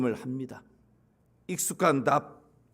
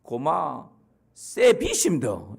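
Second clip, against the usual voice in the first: put-on Gyeongsang accent; 3 semitones lower, much slower than usual. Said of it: "그랬더니 경상도 청년이".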